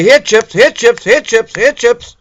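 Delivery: high, loud call to a dog; repeated loud dog call. Retold or imitated. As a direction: call the dog from across the yard. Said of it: "you say".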